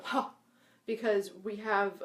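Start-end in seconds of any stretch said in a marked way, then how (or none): 0.0-0.3 breathy ha release. Shown as a demonstration. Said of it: "you put your arms up and you go".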